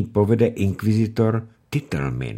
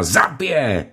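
high, loud calling for help; mother calling her son as bailiffs attack; desperate call; 12 semitones higher, 5 dB louder, slower than usual. Acted.

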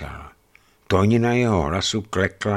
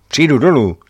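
sulky; 7 semitones higher, 8 dB louder than usual. A narrator's reading. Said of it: "rozmrzele a trucovitě".

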